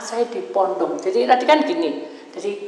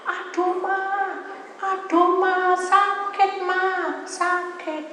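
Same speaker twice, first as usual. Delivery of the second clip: high, drawn-out wail to mother; imitated cry of pain; 11 semitones higher, much slower than usual. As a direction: re-enact a child wailing in pain, stretched high. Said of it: "Saya teriak-teriak". (tiruan rintihan kesakitan bernada tinggi)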